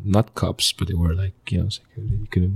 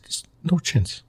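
high-pitched, drawn-out no way; emphatic refusal; 11 semitones higher, slower than usual. Retold or imitated. Teenager asked about deportation, emphatic refusal. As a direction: refuse slowly, pitch jumping right up.

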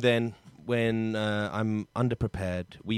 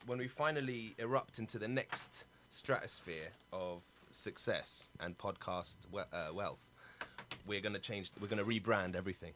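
much softer, hushed grand dream; soft dreamy musing; 13 dB quieter than usual. Acted. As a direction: murmur the big plans softly. Grand dream told softly.

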